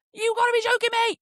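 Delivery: high, incredulous outcry; mock disbelief. Passenger running as conductor readies whistle, incredulous cry. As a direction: protest it high, in acted outrage.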